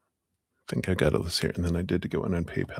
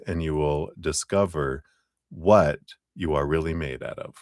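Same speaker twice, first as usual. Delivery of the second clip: card reading aloud. Acted. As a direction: read the card out clearly and firmly. Reads the fortune card aloud.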